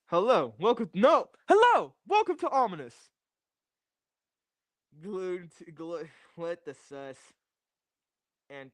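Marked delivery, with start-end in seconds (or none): 0.1-2.9 spooky greeting. Pretend. Spooky host greeting bit.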